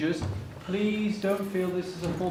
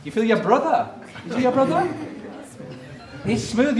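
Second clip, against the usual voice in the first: amused questions with laughter in them; laughing; 4 semitones higher than usual. Real, not acted. Lecturer amused by a child's answer, laughing. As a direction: laugh along as you ask. Child says he feels brother.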